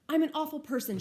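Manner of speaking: a mild read of crying words; through tears. Acted. Olivia blaming herself to Justin, lightly tearful. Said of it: "she says through her tears".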